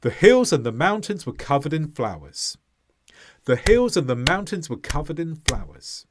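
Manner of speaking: "hills", "mountains", "covered", "flowers" stressed on the beat, small words squashed; stress timed rhythm. Shown as a demonstration. Teacher modelling the next example for learners, stress-timed. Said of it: "Listen to the next one".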